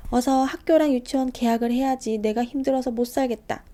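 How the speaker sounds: loud, weary complaint; fed-up mother. Acted. Mother tired of her boys, loud weary complaint. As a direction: sigh it out, worn down.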